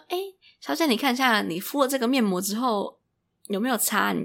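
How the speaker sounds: high, sugary sales pitch; pushy saleswoman. Retold or imitated. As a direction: mimic a counter girl luring a customer.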